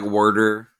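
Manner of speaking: "worder" with a Southern R in the first syllable; Southern added R. Shown as a demonstration. Host showing how the South says it, "worder" with added R. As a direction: say "worder" for water, R-coloured vowel. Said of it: "in the South, we say it like".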